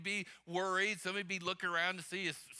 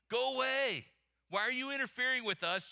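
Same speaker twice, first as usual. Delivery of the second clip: raised, higher reading of a cry; mild shout; 4 semitones higher than usual. Acted. Preacher reading the demon's outcry to Jesus, mildly shouted. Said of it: "cried out, shouting".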